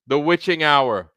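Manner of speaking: put-on light mid-Atlantic accent, a touch high; a hint of old-time mid-Atlantic accent. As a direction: ease into a mid-Atlantic American lilt. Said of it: "in my mid-Atlantic American accent".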